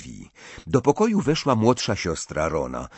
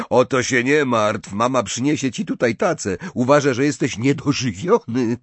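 put-on livelier, higher boy's character voice; Ron, reassuring; 5 semitones higher, 5 dB louder than usual. A narrator's reading. Ron tells his friend about the breakfast tray, reassuring. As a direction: voice Ron passing on mum's message, lightly animated.

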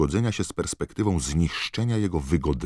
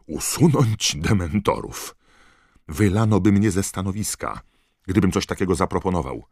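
oburzony; 5 semitones higher, 6 dB louder than usual. Acted. Oburzony minister odrzuca propozycję.

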